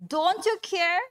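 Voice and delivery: panicked plea. Acted. Disciples panicked in the storm.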